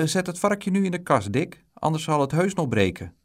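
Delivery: high, urging mother; motherly warning. A narrator's reading. Mother instructs boy with a warning.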